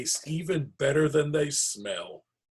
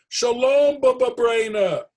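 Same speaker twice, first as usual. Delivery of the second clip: cheerful greeting; 12 semitones higher, 9 dB louder than usual. Acted. Friends call greeting at door.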